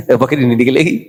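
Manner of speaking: said through a chuckle; amused, laughing delivery. Real, not acted. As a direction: chuckle as you deliver the punchline. Joking retort, laughs while saying it.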